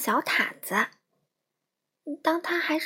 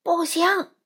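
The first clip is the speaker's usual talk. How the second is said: father's emphatic no, pitched up; high, forceful no; loud refusal; 6 semitones higher, 4 dB louder than usual. A narrator's reading. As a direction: put your foot down loudly, as in a storybook. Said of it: "爸爸说得更大声".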